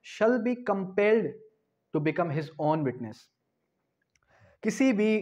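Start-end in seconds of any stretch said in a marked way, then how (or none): 0.1-3.2 each word drawn out, very slow; slow dictation. Shown as a demonstration. Law teacher dictating the article to students, very slow. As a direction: read it word by word for notes. Teacher reading constitution text slowly.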